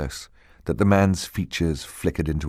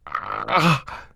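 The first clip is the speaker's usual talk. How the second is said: strangled terrified gasp; choked gasp; 4 semitones higher than usual. A narrator's reading. Terrified Klaus chokes out a sound, strangled. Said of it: "Klaus heard himself choke out".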